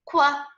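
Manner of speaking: "Quack" cut down to a single "kwa"; one falling "kwa" for "Quack"; Q sound demo. Shown as a demonstration. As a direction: sound out "Quack" as a short "kwa", without the final k. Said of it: "we will make the quack sound".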